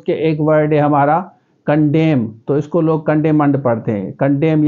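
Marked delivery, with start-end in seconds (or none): 1.7-2.3 "कंडेम" said as condemn, no final -ed; "कंडेम" clean, ending on the m; correct pronunciation. Shown as a demonstration. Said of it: "ये pronunciation सही होना चाहिए". 4.1-4.7 "कंडेम" said as condemn, no final -ed; "कंडेम" clean, ending on the m; correct pronunciation. Shown as a demonstration. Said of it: "ये pronunciation सही होना चाहिए".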